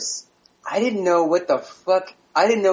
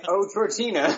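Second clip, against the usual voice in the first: quoting a misheard lyric; 5 semitones higher than usual. Retold or imitated. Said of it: "I heard".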